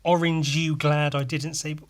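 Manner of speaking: plainly English accent, every syllable kept; crisp English version of the joke; English pronunciation. Shown as a demonstration. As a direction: say it properly, as in England. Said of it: "where they pronounce shit properly".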